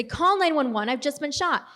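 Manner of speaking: hint of a yell; mild retold yell. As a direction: call out urgently to the driver for help. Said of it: "and so I yell at her".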